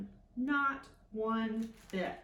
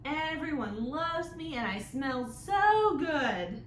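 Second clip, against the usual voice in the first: smug boastful voice; 5 semitones higher, 5 dB louder, slower than usual. Acted. Vain Bacon speaks.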